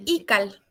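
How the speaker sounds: "Ical" with the weight on the first syllable I; teacher modelling "Ical" as I-cal, first syllable strong; stress on penultimate syllable. Shown as a demonstration. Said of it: "El acento está en la penúltima".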